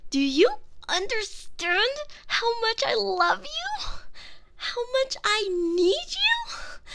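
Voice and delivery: high, loud, pleading demands; desperate shouting. Acted. Girlfriend loudly demanding love from her captive, desperate and high. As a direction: beg and demand at once, unhinged.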